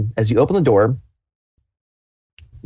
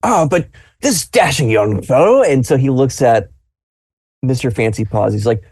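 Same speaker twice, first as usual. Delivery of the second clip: lightly voiced admiring old man; a hint of a pleased grandpa; old grandfather; 2 semitones higher than usual. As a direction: grandfather approving the young fellow. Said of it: "he's just like".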